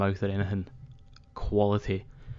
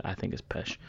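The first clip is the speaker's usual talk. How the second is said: breathy whispered verdict, much softer; whispered aside; 10 dB quieter than usual. Real, not acted. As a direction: drop to a whisper like a secret jab. Muttered aside about ring gear.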